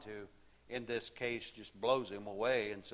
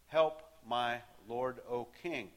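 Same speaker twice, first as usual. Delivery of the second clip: pleading cry. Acted. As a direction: call up to the king, begging. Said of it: "So she's crying out to him".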